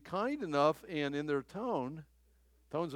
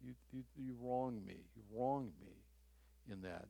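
much softer, lower, gently naming the wrong; quiet and earnest, telling them they hurt you; soft confrontation; 4 semitones lower, 10 dB quieter, faster than usual. Retold or imitated. Offended person softly confronting the offender, low and hushed. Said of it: "and say".

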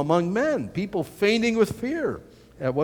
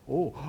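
stunned gasp; 2 semitones lower, 5 dB quieter than usual. Retold or imitated. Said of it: "every Jew would go like".

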